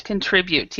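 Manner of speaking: Contribute said con-TRI-bute; middle stress. Shown as a demonstration. Teacher confirms the student's stress on Contribute. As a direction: Contribute with TRI stressed, first syllable weak. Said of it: "the stress is in the middle".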